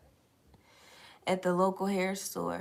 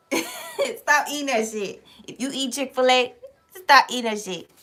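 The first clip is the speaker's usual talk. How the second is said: laughing repeat; 5 semitones higher, 4 dB louder than usual. Shown as a demonstration. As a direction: tease the viewers with a laugh.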